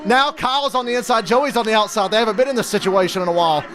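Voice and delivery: high, frantic disbelief; pleading with the driver as it slips away; excited dismay. Real, not acted. Streamer watching his driver blow the lead, high-pitched dismay.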